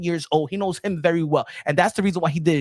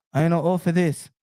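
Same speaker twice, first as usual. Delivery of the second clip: same line dropped low; Pacquiao impression, lower. Boasting as Pacquiao, low take. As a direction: say I know all for this low and steady. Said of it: "I be Mario Barrios".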